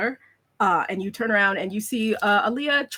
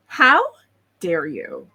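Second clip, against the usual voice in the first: offended gasp; 3 dB louder, slower than usual. Acted.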